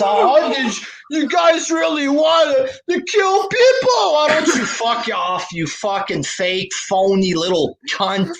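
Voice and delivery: high shouted mock whine into insults; sneering falsetto rant; mocking Tony Khan. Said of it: "What a dishon".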